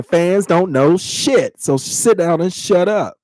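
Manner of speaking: Fans don't know shit, each word slow and heavy; slow, stressed brush-off to the fans; slow, emphatic put-down. Real, not acted. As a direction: lean hard on the words, dismissive. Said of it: "I said in the beginning of this".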